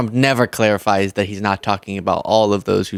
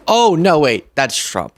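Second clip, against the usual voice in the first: feigned surprise; 4 semitones higher than usual. Pretend. Feigned realization in sarcastic bit.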